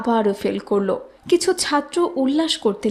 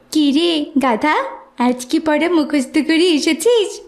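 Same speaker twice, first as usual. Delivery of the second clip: mocking; 4 semitones higher than usual. Teacher mocking the student.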